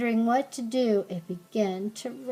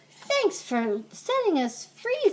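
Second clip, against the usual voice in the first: captain; 9 semitones higher than usual. A narrator's reading. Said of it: "said the captain".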